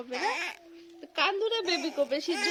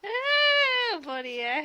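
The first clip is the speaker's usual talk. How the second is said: crying; 6 semitones higher, much slower than usual. Real, not acted. Small child cries during lesson.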